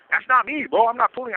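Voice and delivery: high, indignant denial across the tier; defensive yell. Retold or imitated. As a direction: shout back that it wasn't you. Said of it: "yelling at each other".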